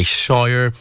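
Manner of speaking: "shower" said the Geordie way; light Geordie accent on "shower"; Geordie pronunciation. Shown as a demonstration. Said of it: "The way, like, Geordie people say".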